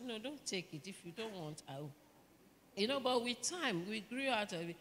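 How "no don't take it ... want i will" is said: teasing refusal. Retold or imitated. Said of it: "I say".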